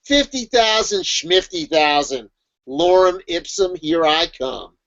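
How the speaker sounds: slow, deliberate scoffing boast; mock defiant. Writer shrugging off fifty thousand words, mock defiant. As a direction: space out each phrase like a declaration. Acted dismissive writer in list.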